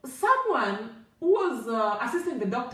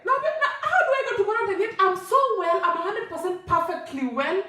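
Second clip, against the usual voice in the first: higher-pitched pleading objection, retold; indignant protest; 6 semitones higher than usual. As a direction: mildly act out arguing against quarantine. Acts protest against quarantine.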